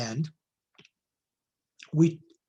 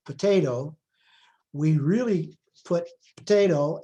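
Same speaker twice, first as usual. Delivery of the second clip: potato with the second syllable louder and longer; stress on second syllable; 3 dB louder than usual. Shown as a demonstration. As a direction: lean on the middle of potato. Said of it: "the stress is on the second syllable".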